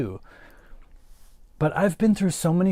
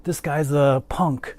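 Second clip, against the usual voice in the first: suspicious shop clerk. Retold or imitated. Clerk to a customer in a hat, mock suspicious. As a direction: drag it out like a clerk sizing up a punk. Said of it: "She was like".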